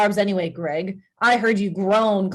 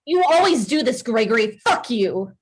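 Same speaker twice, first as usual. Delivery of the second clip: hurt angry accusation. Acted. Wife furious at cheating husband.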